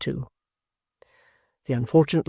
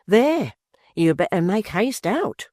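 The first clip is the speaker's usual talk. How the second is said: tart wife; 6 semitones higher, 3 dB louder than usual. A narrator's reading. Wife scolding husband.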